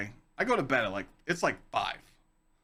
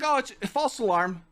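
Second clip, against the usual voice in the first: imitating the girl; 7 semitones higher than usual. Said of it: "She's like".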